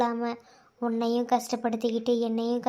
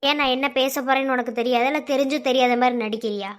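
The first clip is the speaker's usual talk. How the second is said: accusing; 2 semitones lower, 5 dB louder than usual. Acted. Lover confronts her.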